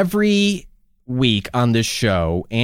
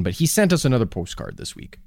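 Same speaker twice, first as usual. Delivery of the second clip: slipped Canadian accent; 4 dB quieter than usual. Real, not acted. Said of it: "I said it like I was Canadian".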